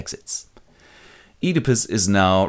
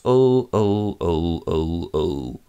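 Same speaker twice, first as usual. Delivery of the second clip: dawning horror; 3 semitones lower, much slower than usual. Acted. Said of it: "And Jocasta goes".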